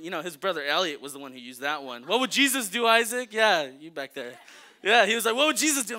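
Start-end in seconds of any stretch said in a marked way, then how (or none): 2.1-4.3 higher, louder pious nudge; mock preachy friend. Brother Elliot guilting Isaac, hammed-up piety. 5.4-6.0 higher, louder pious nudge; mock preachy friend. Brother Elliot guilting Isaac, hammed-up piety.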